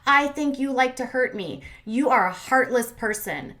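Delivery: mildly hammed-up indignation; retold anger. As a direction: slowly draw out the mock accusation. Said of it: "so mad at her".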